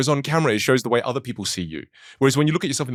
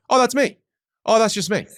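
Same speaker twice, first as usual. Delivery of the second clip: mock realization; 11 semitones higher, 3 dB louder than usual. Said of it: "You go".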